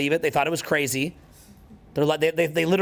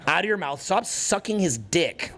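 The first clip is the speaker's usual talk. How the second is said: laughing mock rant; 3 semitones higher, slower than usual.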